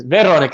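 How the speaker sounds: "Veronica" copied Czech style, stressed on the first syllable; practice attempt. Shown as a demonstration. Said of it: "see, that would take some practice".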